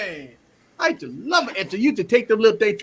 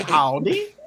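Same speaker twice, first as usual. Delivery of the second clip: customer service voice; slower than usual. Retold or imitated. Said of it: "Eric put that customer service voice over Emily".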